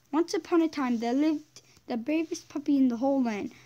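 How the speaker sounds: once-upon-a-time reading voice; storybook narration. Acted. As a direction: lightly read fairy-tale narration. Reads game story aloud.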